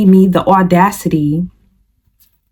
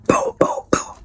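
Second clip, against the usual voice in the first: soft, voiceless booms; hushed mouth-made door knocks; imitated knocking; 8 dB quieter than usual. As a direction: imitate knocks on a door under your breath. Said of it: "banging on the door, just knocking".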